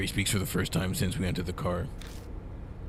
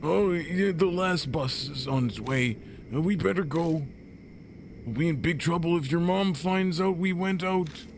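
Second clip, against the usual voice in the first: high squeaky character voice; 9 semitones higher than usual. Acted. Same character voice returns.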